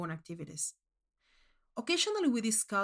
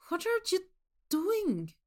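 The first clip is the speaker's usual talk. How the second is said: puzzled question; 10 semitones higher, slower than usual. Acted. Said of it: "walked in on me doing this and asked".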